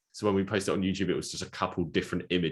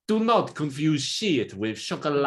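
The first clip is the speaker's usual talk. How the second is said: higher, louder put-on theatrical villain voice; Jared Leto voice; 9 semitones higher, 5 dB louder than usual. Unmasked Jar Jar turns out to be a higher, theatrical villain. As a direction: deliver it like a grand movie villain. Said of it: "he goes".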